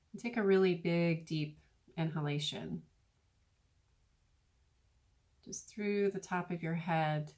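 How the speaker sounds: unhurried guiding voice with long pauses; guided meditation. Acted. Meditation teacher talking listeners through breathing in golden light, guided meditation. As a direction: lead them gently through each breath, pausing between phrases.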